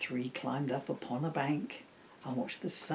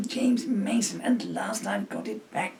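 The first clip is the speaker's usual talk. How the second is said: James Mason impression; 7 semitones higher, 3 dB louder than usual. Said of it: "pretending to be James Mason".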